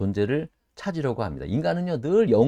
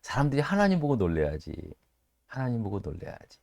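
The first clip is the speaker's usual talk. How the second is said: quiet realization; 8 semitones lower, 8 dB quieter than usual. Retold or imitated. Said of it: "은혜를 제가 또 이렇게 받았어요".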